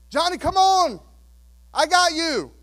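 put-on loud, high call to a scared child; father calling up from the pool, loud and high. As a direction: shout up encouragement from the pool below.

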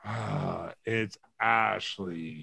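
low, soft, slow groan of a name; dread. Retold or imitated. Groaning that Ashley has arrived, low and slow. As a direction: drag it out in weary dread. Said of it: "lower and more monotone".

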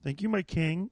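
soft, bowing gratitude; humble thanks. Retold or imitated. Bowing to the Chipotle clerk, humbly soft. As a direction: grovel to the clerk like a servant. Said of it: "I bow my head".

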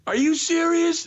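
very high, loud shout; shrill-pitched indignant yell; retold yell. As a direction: scream it after the shuttle. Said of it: "And I yell so loud".

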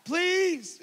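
put-on high, coaxing plea to a hiding kid; coaxing a hidden child. Dad coaxing his hiding daughter, high and pleading. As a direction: sweet-talk her out with cookies.

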